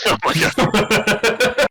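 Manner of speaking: slow, high drawn-out oh my God; mock shock. Real, not acted. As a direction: stretch it out in fake horror. Mock horrified drawn-out gasp.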